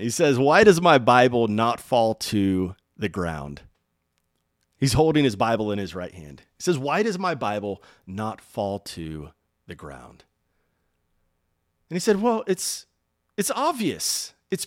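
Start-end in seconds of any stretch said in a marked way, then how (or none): 0.4-3.6 put-on old preacher's accent, loud, slow and declaimed; Reinhard Bonnke. Old preacher holding up his Bible to the crowd, loud accented declaiming. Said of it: "he says in his accent, beautiful accent". 6.8-10.2 put-on light old-preacher accent, slow and measured; a hint of the old preacher's accent, question spaced out slowly; Reinhard Bonnke. Old preacher repeats his question to the crowd, slow accented delivery. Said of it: "he says in his accent".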